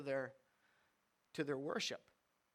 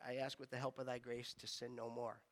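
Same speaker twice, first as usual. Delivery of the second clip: quiet recited prayer; 4 semitones lower, 6 dB quieter than usual. Retold or imitated. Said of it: "I think it goes on".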